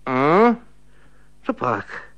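put-on a light sleepy old maid voice; sleepy woman mumbling. A narrator's reading. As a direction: mumble like a woman just woken. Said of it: "zabrebentil ženský hlas".

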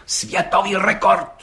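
slow, high and weighty, falling on rekord; solemn. A narrator's reading. Gendarme Hejda solemnly repeating the record to the judge. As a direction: announce it like a ceremony. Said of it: "opakoval četník Hejda slavnostně".

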